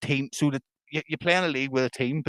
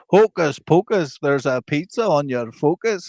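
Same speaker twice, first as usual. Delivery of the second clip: slow, chanted magician's patter in Scottish; hammed-up Scottish incantation; mock Scottish accent; 2 semitones higher, 3 dB louder, slower than usual. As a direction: imitate a Scottish prankster, drawn out. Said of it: "you need to Google Scottish TikTok".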